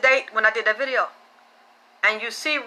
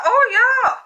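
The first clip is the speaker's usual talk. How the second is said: voicing the girl; 12 semitones higher, 5 dB louder than usual.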